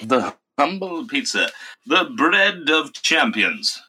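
slow, high, announcer-like praise of pizza; hammed-up slow showman voice; mock grand presenter. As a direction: sell the pizza like a grand show host, slowly.

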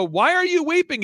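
high-pitched, drawn-up plea; retold question, pitched high with feeling; acted emotional questioning. Asking his weeping client why, in an acted high voice. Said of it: "and he's weeping".

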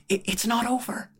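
high, stammered plea; pleading. A narrator's reading.

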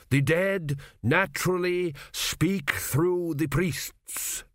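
slow, measured high priest; slow solemn priest. A narrator's reading. Priest relays the king's words, slow and solemn. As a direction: intone it like an ancient priest.

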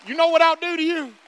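loud mock-angry mother; hammed-up mother's threat. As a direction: threaten him like a mom. Mary threatening Jesus.

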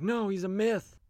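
high, dismissive thug scoffing; mocking thug voice. Thugs dismiss Superman's existence.

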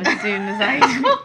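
talking mid-sip of water; words around a swallow; while sipping a drink. Real, not acted. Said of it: "sorry, I'm drinking my water bottle".

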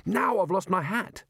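high-pitched, aggrieved wail; panicky complaint. Acted. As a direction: wail over the latest mishap. Wizard wailing under attack.

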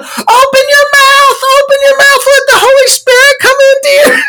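very high-pitched mock revival chant; frenzied religious command. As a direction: squeal it out like an overexcited zealot. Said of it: "then she starts going".

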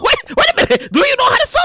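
high, laughing mock yell. Son laughing as he asks his mom if she can sew. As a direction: crack up while asking.

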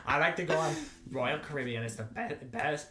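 lightly put-on Southern accent; imitated Southern accent. Guest tries to sound like Southern co-host, mock Southern accent. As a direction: mimic co-host's Southern accent. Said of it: "I'm just gonna try to sound like you".

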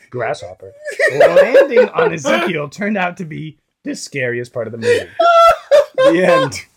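lightly hammed-up storyteller, cracking up; mock-dramatic reading with laughter creeping in; put-on story voice. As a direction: finish the silly horror tale through giggles. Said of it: "Do a voice".

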